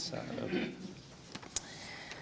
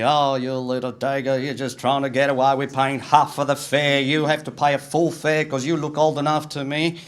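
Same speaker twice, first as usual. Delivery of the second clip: mock angry driver; 4 semitones higher, 5 dB louder than usual. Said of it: "almost sort of swearing at me".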